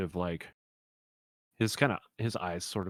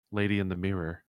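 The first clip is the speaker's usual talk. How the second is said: settled, even kenku reply; calmed down. Acted. Kenku answering once he has calmed down, calm. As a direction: answer calmly at an everyday volume. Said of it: "He seems to calm down".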